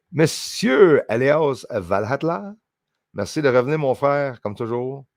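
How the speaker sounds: grand, drawn-out French welcome; showy French greeting. Acted. Streamer greets a returning viewer, showy French greeting.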